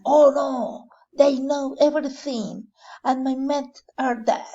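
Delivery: panicked villain, dropping to a whisper on my men are dead; alarmed captain. Acted. Captain panics at losing his men, loud then whispered.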